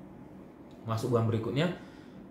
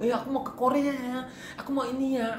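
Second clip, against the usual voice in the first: high, excited bragging voice, hammed up; mock show-off; 12 semitones higher than usual. Teller mocks a friend bragging about the Korea trip, high and gushing. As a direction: mimic a friend who brags about her trip. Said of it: "nggak seheboh dia".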